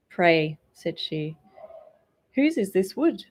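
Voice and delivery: demanding princess; haughty princess. A narrator's reading. Princess asks beggar.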